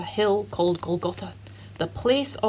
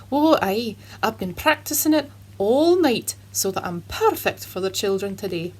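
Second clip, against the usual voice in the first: put-on Scottish accent. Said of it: "Scotch Jeremy".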